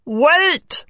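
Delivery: contained frog interjection; frog interrupting. A narrator's reading. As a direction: cut in as the frog, mildly. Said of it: "said the frog".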